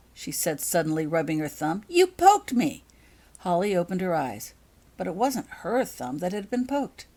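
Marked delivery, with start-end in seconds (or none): 1.9-2.8 high, loud cry of surprise; startled yelp. A narrator's reading. Holly jolted by a pinprick, startled yelp. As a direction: blurt it as the pin stings. Sudden pain, pricked thumb.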